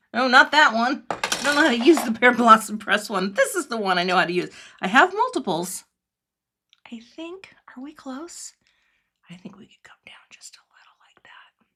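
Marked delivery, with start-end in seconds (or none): 6.9-11.5 very soft, breathy, barely voiced whisper. Showing viewers how to use a press tool, whispering. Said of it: "Sorry, I'm whispering".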